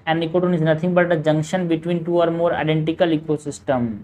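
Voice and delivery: slow, even question reading; measured textbook read-aloud. Acted. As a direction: read the exam question out slowly. Reading out a statement.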